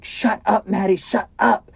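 loud, high-pitched acted shout; panicked boy shouting her down; frantic yelling. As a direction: yell it to silence someone, high and loud. Frantic boy yells at crying girl.

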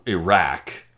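Iraq ending like "rack"; Iraq rhymed with "back"; own pronunciation. Shown as a demonstration. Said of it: "That's how I said it".

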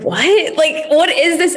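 high, baffled What; imitating panicked surprise; mock shock. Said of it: "I was like".

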